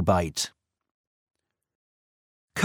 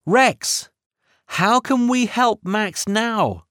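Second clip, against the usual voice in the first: gasping; 8 semitones higher than usual. A narrator's reading. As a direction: gasp it out in alarm. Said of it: "gasped Minnie".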